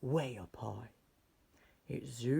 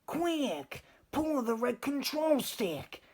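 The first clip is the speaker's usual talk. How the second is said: high, loud urgent command; the professor urging the boy to steer home; 14 semitones higher, 6 dB louder, slower than usual. A narrator's reading. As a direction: cry out the instruction in a hurry. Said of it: "The professor cried".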